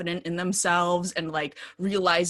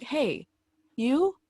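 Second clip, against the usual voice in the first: high-pitched gushing affection, building louder; over-the-top declaration to a friend; gushing at roommate; 9 semitones higher, 5 dB louder than usual. Retold or imitated. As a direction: start with a hey, then build into loud adoration. Acts out gushing at her roommate.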